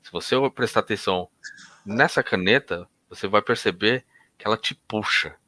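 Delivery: hypnotist easing a client into trance; hypnotic suggestion. Shown as a demonstration. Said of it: "eu vou falar".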